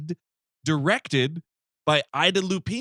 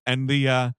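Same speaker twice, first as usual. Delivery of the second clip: hesitate, then stretch out a louder "ah"; flustered hesitation; 3 dB louder, much slower than usual. Retold or imitated. Motel man avoiding the word bathroom, flustered hesitation. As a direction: stall awkwardly, mimicking a flustered man. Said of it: "he just cannot say bathroom".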